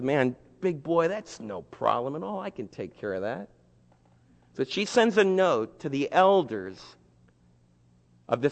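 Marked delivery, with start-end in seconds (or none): 0.0-3.5 quiet scheming queen; scheming reassurance. Acted. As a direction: soothe him while plotting. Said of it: "Jezebel says".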